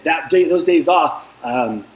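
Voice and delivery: stumbling over the words; tripping on words after coffee; tongue-tied. Real, not acted. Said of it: "I'm getting tongue-tied".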